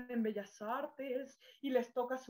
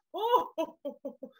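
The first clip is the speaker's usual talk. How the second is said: Santa Claus laugh; 4 semitones higher, 4 dB louder than usual. Shown as a demonstration. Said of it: "mi diafragma se conecta".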